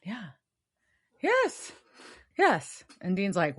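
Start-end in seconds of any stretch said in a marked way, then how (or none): none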